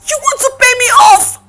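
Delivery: loud, quick, affronted question; insulted and incredulous; indignant disbelief. Acted. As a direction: throw the offer back at them. Offered money to leave.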